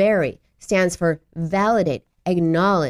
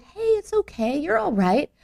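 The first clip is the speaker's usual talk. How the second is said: high, upbeat parental brush-off; positive dismissal; 9 semitones higher than usual. Acted. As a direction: cheer the child out of it. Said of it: "even if it's positive".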